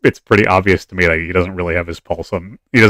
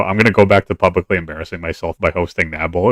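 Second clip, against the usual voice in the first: sarcastic. Retold or imitated. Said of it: "I just sarcastically go".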